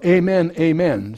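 a slow, weighty Amen, amen; solemn emphasis. Shown as a demonstration. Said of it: "same equivalent".

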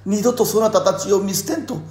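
lightly voiced Ieyasu, rising; pleading lord, building high; creaky wise old man. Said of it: "って言ってたけど".

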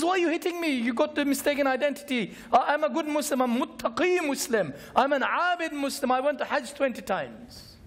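the dead man's hammed-up protest to the angels; mock indignant protest. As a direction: whine your innocence up high. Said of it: "he says".

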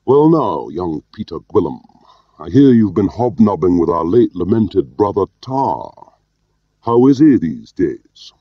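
high, loud, pert Scots; Allaline's pert Scottish brogue. A narrator's reading. Boss questions young Gwilym about Tar, pert Scottish brogue. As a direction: needle him in a Scottish accent. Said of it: "continued in his pert Scottish brogue".

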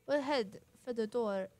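put-on halting stab at a British accent; failed British accent. Bobbery saying it's time to leave, in faltering British accent. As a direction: attempt a British gentleman and miss. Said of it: "I can't do British accent".

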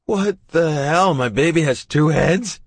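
loud, high panicked yell; shouting about the two heads. Acted. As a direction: blurt it out in alarm. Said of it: "I practically scream".

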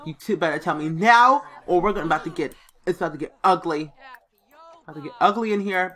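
mock bad cop growling at a suspect; bad cop threat. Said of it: "we're gonna play bad cop".

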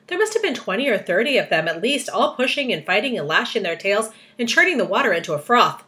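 put-on animated read-aloud to children; storyteller building up the drama; story narration. A narrator's reading. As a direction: read the action with lively, swinging emphasis.

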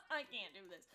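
laughing through it; laughing exasperation. Real, not acted. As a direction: give up with a laugh. Repeats it laughing.

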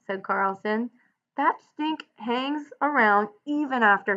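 steady read-aloud narration with lightly voiced ranch hands; story narration. A narrator's reading. Teacher reading the novel aloud to students. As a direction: read the bunkhouse scene to the class.

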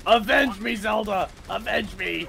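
overacted death scene. Dying in game, melodramatic plea.

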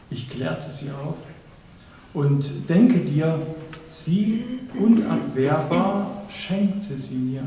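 measured verse reading with deliberate pauses; poem recitation. Acted. Reciter presents the Leipzig poem to an audience, measured poem recitation. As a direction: recite it line by line, letting each phrase stand.

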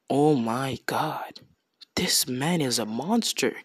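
awed hush. Retold or imitated. Onlookers finding the giant asleep, awed hush. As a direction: breathe it out in slow, stunned awe.

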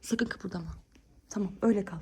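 soft unvoiced whisper; whispering while hiding. Real, not acted.

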